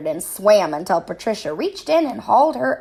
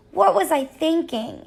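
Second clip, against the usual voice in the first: moan; 7 semitones higher than usual. A narrator's reading. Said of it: "Harriet moaned".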